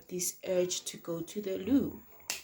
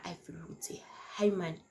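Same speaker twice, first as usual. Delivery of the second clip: whisper; 6 dB quieter, faster than usual. Retold or imitated. Quietly retelling the moment.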